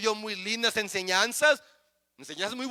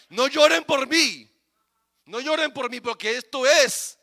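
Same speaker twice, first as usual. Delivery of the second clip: Jesus speaking; 3 semitones higher, 4 dB louder than usual. Acted. Jesus to the women again.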